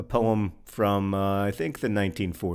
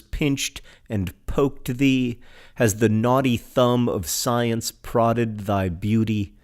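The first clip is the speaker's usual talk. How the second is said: stately, drawn-out recital; dramatic poetry reading; slower than usual. Acted. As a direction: proclaim it like an impassioned orator. Reads a poem aloud.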